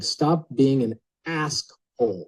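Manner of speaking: each word spelled out slowly and bluntly; slow blunt scolding. Retold or imitated. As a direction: hammer it out at half speed. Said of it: "She's like".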